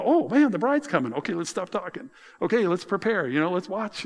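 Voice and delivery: lightly acted excitement about the bride; excited guest. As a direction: play the guest who suddenly spots the bride. Guests reacting to the announcement.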